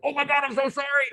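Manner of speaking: high, sheepish laughing sorry; giggly apology. Retold or imitated. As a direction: apologize while trying not to laugh. Apologizing after punching buddy.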